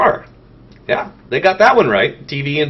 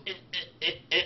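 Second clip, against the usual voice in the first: imitated head sound; 3 semitones higher, 11 dB quieter than usual. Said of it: "his head goes".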